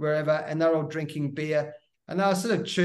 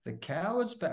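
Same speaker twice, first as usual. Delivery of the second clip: drawn-out jeering taunt; mocking taunt; 3 dB quieter, slower than usual. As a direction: sneer it like a heckler in the nets. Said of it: "a bloke in there going".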